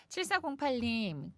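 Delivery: ordinary talk, nothing marked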